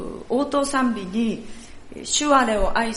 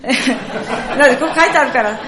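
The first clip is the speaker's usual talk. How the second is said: laughing; 3 semitones higher, 8 dB louder than usual. Real, not acted. Laughs at the written dialect.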